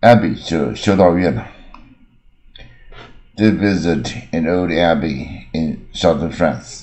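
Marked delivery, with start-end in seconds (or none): 3.3-6.8 slow, careful reading of the example; slow model sentence. Shown as a demonstration. Teacher reads the example sentence to students, slow and clear. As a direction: read it slowly and clearly. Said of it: "example sentence read".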